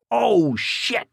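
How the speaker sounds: a hint of a roar. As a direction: blurt it out as the gun misfires. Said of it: "roared Duke".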